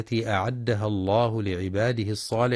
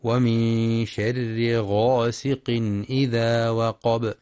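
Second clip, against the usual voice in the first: slow tajweed recitation; Quran recitation; much slower than usual. Shown as a demonstration. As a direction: recite slowly, with the heavy ghayn. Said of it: "لأنها من حروف الاستعلاء". (تلاوة مجودة بطيئة)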